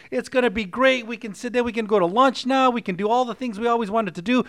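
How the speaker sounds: high, excited wife on the phone; ecstatic wife. Retold or imitated. Wife phoning her sister about moving, high and excited. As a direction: gush the news to her sister. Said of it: "the wife immediately gets ecstatic".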